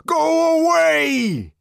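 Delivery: high, slow furious shout. A narrator's reading. Savage shouting at the jeering crowd, furious shout. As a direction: hurl it at the crowd at full force. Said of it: "he shouted".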